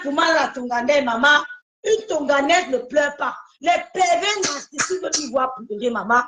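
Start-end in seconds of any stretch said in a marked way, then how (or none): 1.8-3.4 slow shouted slogan. Real, not acted. Rallying the crying woman.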